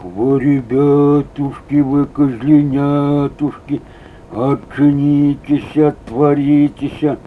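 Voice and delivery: slow, drawn-out wolf pretending to be the goat; lightly voiced wolf luring the kids, slowly; wolf faking mother goat. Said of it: "не маткин голос". (волк под мать-козу, медленно и протяжно)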